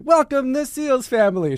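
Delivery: high, loud grand welcome announcement; cruise ship announcer. Retold or imitated. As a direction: announce the family like a cruise host. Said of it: "It's like".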